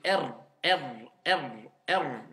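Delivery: "R" with a very light tongue flick; just a brief flick of the tongue on "R"; light rolled r. Shown as a demonstration. Teacher demonstrating a barely rolled R. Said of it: "vraiment très léger".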